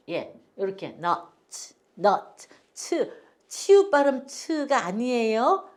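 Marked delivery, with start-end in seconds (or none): 2.0-3.1 nut then 츠 said very slowly apart. Shown as a demonstration. Teacher breaks nuts into parts for the class. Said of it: "T 발음 츠예요".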